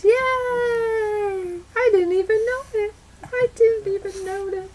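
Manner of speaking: high squealing delight; excited squeal. Real, not acted. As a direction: gush with surprise. Excited cry about laptop.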